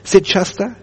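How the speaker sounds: unhurried storybook narration; a touch of drama in the storytelling. A narrator's reading. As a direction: read it like a bedtime story to children. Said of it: "in my best storytelling voice".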